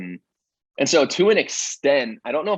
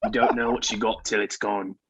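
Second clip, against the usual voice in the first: put-on Australian reading of a note; mock Australian accent; 3 dB quieter than usual. Shown as a demonstration. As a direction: read it in a badly faked Australian accent. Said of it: "that's definitely Australian".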